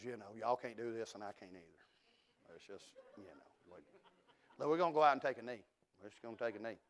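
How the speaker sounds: defeated quarterback. Retold or imitated. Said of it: "his helmet's off, his head's down".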